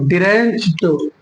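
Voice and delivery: ड्रेंच्ड ending in a released T; correct pronunciation. Shown as a demonstration. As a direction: draw out ड्रेंच्ड, closing on T. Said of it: "टा बोलेंगे". (ड्रेंच्ड के अंत में 'ट')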